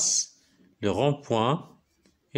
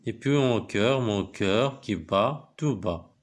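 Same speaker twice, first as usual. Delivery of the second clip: poem recitation; much slower than usual. Acted. Reads the poem aloud to pupils.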